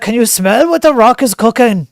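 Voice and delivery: mock The Rock bragging; The Rock impression. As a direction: boom it out like a showman wrestler. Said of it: "saying things like".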